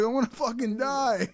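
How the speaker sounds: high, loud stoner wail; a stoner choking on soap, high comic wail. Retold or imitated. Voicing character, laughing.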